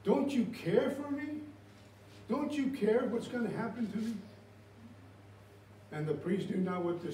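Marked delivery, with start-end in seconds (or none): 0.0-4.1 pleading man. Retold or imitated. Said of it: "And he goes like this".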